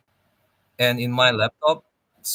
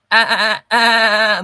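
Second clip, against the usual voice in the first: put-on much higher, louder childlike squeal on ah; kiddie treble voice; 9 semitones higher, 10 dB louder than usual. Shown as a demonstration. Streamer demonstrating a fresh-off-the-boat kiddie voice, high and loud. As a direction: squeak it out like a little kid. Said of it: "treble voice, their kiddie, more kiddie sound".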